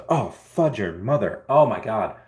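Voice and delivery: hiccuping, painful; hiccups. Real, not acted. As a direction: talk through painful hiccups. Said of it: "The hiccups hurt me".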